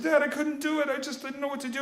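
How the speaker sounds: put-on high-pitched helpless kid voice; pleading kid. Son explaining his failure to dad, pleading. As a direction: plead high, like a boy making excuses to his father.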